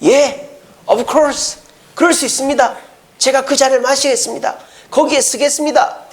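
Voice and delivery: lifted, eager yes-we-can voice; keen disciples jumping at the chance. Retold or imitated. Disciples eagerly answering Jesus, lifted and keen. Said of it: "이 두 제자가 뭐래요?".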